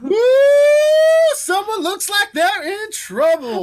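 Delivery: high, sing-song teasing; teasing taunt. Retold or imitated. Actor teasing the arguing couple, high sing-song. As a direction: gleefully tease the couple. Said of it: "And then I just went".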